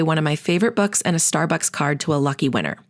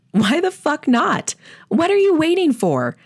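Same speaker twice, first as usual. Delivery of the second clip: emphatic challenge; 10 semitones higher, 3 dB louder than usual. Acted. Host challenges listener in outro.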